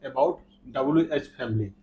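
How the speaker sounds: slow, deliberate teacher voice; slow lesson intro. Shown as a demonstration. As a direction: spell it out slowly for the class. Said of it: "teacher introduces lesson slowly". (धीमी, साफ़ शिक्षक की आवाज़)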